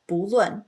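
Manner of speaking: 不论 with bu in a rising second tone; tone sandhi bu. Shown as a demonstration. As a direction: say 不论, bu lifting up before lun. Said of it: "turns into kind of a second tone".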